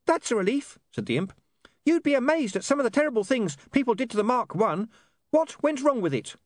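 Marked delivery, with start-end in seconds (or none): 0.1-0.8 high little imp voice; high-pitched, relieved creature. Acted. Relieved imp answers in story. 1.8-6.3 high-pitched little imp voice; high, indignant small creature; chatty imp. Acted.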